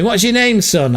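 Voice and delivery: high-pitched mock Scottish-Irish accent; Jerry's Celtic accent. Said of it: "The Scottish guy".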